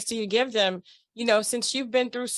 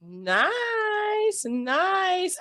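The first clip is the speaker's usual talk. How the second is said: excited praise; 10 semitones higher than usual. Real, not acted. Reacting to the song preview.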